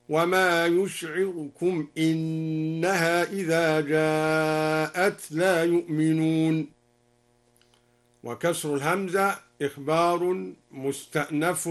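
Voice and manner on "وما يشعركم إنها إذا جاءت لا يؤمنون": slow chant, fleeting u after the r in "يشعركم", "إنها" starting with i; snatch the vowel after the r in "يشعركم", draw out "إنها"; al-Duri reading. Shown as a demonstration. Teacher demonstrating the second variant, "يشعركم" chanted with a shortened r vowel. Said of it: "بإسكان الراء واختلاسها وكسر أنها هكذا".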